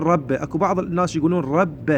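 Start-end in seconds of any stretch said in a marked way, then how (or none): 0.0-0.3 رب ending in an open "a"; demonstrated mistake, رب with a fatha; wrong vowel. Shown as a demonstration. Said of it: "مو نقول". 1.4-1.9 رب ending in an open "a"; imitating the error, رب with a fatha; mistaken fatha. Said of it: "يفتحوها للباء".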